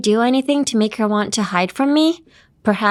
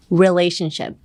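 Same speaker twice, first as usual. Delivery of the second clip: candy in mouth. Shown as a demonstration. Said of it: "speak like you're trying to hide something in your mouth".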